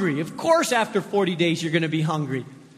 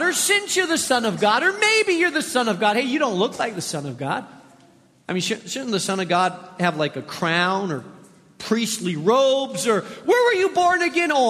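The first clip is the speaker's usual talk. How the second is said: a sly tempter needling his target with questions; questioning devil. Acted. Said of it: "the questioning tone of the enemy".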